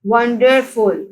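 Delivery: वंडरफुल slowly split as won, der, ful; syllable by syllable. Shown as a demonstration. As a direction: separate each syllable of वंडरफुल. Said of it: "वंडरफुल के three syllables हैं".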